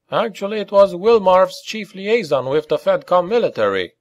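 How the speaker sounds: high-pitched character voice; informant character. A narrator's reading. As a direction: pitch it well up to supply the detail.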